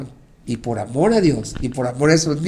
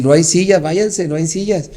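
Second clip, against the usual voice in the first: pitched up, a burst of loud on sillas; sending the crowd off, raised; rehearsed dismissal; 4 semitones higher, 6 dB louder than usual. Retold or imitated. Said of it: "Le voy a decir". (ensayando cómo echar a la gente, en voz alzada)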